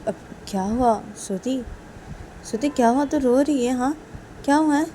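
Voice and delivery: a lightly voiced concerned friend; worried asking. Vikas asks the crying Shruti what happened, worried and high. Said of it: "श्रुति को बोलती".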